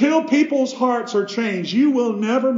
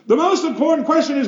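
preaching shout; 4 semitones higher, faster than usual. Real, not acted. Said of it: "climax of repeated build".

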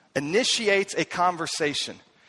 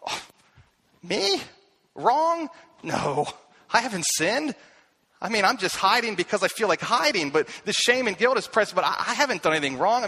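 mock Eve denial; 3 semitones higher than usual. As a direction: play the guilty one pretending innocence. Eve denying sin, mock voice.

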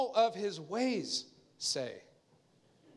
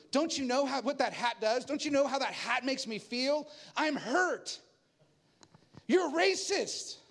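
put-on indignant girl; 4 semitones higher than usual. Pastor mimics the girl scolding black men: mock indignant. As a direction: play the hurt, accusing girl with a touch of mockery. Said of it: "she was so emphatically just indignant".

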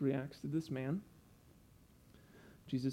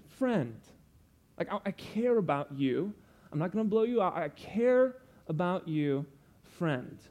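endearing; 3 semitones higher, 3 dB louder than usual. Pretend. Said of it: "He says it in endearing terms".

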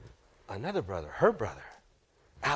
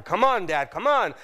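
raised, pressing plea; impatient urging; 4 semitones higher, 4 dB louder than usual. Acted. Son to his dad after a year's waiting, impatient. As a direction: prod him along, climbing higher on the repeat.

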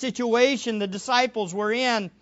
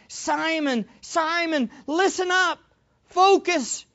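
higher-pitched call to attention; emphatic warning; 5 semitones higher than usual. Acted. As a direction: make him stop and pay attention. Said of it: "as emphatic a way of introducing a warning".

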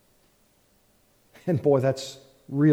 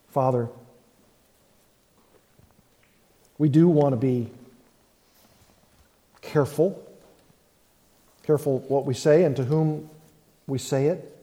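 pastor's prayer. Acted.

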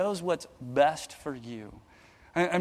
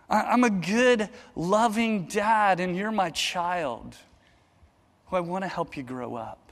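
tender loving father. Pretend. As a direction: speak like a dad reassuring his child. God voiced as loving father.

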